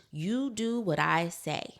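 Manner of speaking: mildly stern parent demand; strict old-school parent. Retold or imitated. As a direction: lay down the law like an eighties parent. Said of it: "it was very much".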